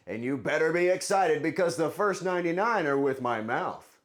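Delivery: loud, bright TV host intro; hammed-up host voice opening the episode; cooking show host. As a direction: announce it like a cheesy cooking show.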